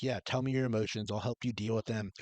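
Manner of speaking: softly offered, understanding reply; supportive parent. Acted. Parent offering help with a child's emotions, supportive. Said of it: "to either, like, be like".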